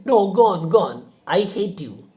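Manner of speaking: loud, high, flip between go and stay; confused loud outburst. Acted. Confused widow flip-flopping at the suitor, loud. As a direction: yell at him, then beg him to stay. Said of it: "She changes her mind again".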